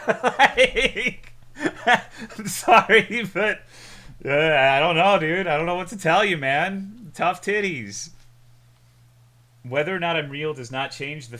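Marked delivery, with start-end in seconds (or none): 0.1-3.6 high, loud laughter through words; laughing. Real, not acted. Bursts out laughing at chat. 4.2-8.1 laughing. Real, not acted. Laughing dismissal to chat.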